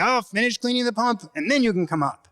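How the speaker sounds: high-pitched mock holler from Dad; imitated father calling from the cliff top. Dad calls order down to kid.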